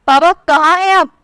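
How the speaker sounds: loud shout. A narrator's reading. Daughter calling angrily for her father, a loud shout. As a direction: shout across the house for papa. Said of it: "ज़ोर-ज़ोर से चिल्लाते हुए बोली".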